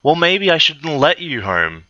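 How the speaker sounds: high-pitched mock preppy girl; lightly hammed-up preppy voice. A narrator's reading. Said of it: "said Bella preppily".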